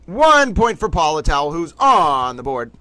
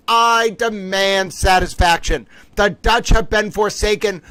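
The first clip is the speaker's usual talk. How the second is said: mock outrage; 4 semitones higher than usual. Mock outrage at quiz answer.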